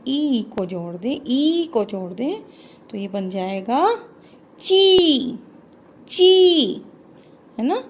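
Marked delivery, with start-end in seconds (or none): 4.6-6.8 ची said short and high; short chi. Shown as a demonstration. Teacher shows children how ची sounds, short and bright. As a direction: pop ची out quick and short. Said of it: "देखो कैसे".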